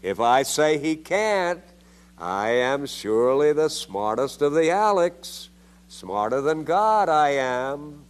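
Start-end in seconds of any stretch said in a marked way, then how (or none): 2.2-8.0 sarcastic. Acted. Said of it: "I'm being sarcastic and ironical".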